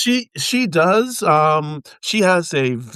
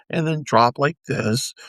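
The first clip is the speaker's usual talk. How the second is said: low voice. Shown as a demonstration. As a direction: own lower voice.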